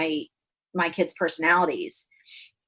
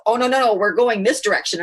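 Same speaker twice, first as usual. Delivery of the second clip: imitated husband objecting, a little higher; mock insistence; 4 semitones higher, 4 dB louder than usual. Husband keeping the family on course, imitated insistent objection. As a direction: cut in with a firm, playful correction.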